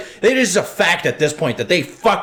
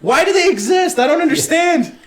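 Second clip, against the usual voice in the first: outraged shouting; 11 semitones higher than usual. Real, not acted. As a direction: shout your disbelief at the whole industry. Ranting about Hollywood producers.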